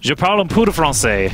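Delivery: a hint of French accent; mock-French classroom line; speaking French. Caster showing off high school French, lightly French-accented. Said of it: "Do a round in French".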